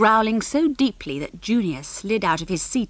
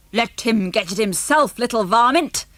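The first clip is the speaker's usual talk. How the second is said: cranky grandad; 3 semitones higher, 4 dB louder than usual. Acted. Grandad snaps from the corner.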